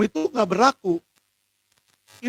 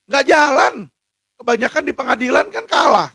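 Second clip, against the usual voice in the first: indignant outburst; 4 semitones higher, 3 dB louder than usual. Real, not acted. Complaining loudly about courts.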